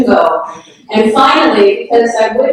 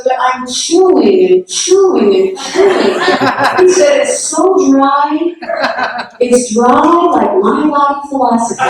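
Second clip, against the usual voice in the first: laughing quote; 5 semitones higher than usual. Retold or imitated. Guru joking about dry cake.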